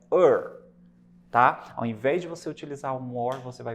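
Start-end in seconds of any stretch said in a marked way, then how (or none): 0.1-0.6 "er" as one English vowel with an r; pronunciation demo. Shown as a demonstration. Teacher showing how E R is pronounced, "er" as one sound. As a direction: say "er" as one sound, not spelled letters. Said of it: "que falando, pronunciando é".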